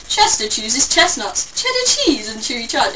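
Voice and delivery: "Chester chooses chestnuts" articulated as an elocution exercise; tongue-twister drill. Retold or imitated. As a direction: recite "cheddar cheese and chewy chives" like a drill, each ch crisply sounded. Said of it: "I basically just did tongue twisters".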